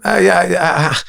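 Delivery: high mock-sorry boy; sheepish apology. Third boy apologizing to rabbis, high sheepish. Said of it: "He goes".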